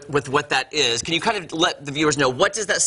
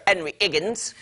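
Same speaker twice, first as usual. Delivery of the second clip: Cockney dropped H's; 2 semitones higher than usual. Acted. Host introducing a cast member, playful Cockney accent. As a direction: drop both H's, Cockney style. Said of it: "I like to say that like that".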